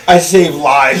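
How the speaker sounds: slow, deadpan and solemn; foot doctor deadpanning to Paulie, slow; straight face. Retold or imitated. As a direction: say it slowly, dead serious. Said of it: "With a straight face, he said it too".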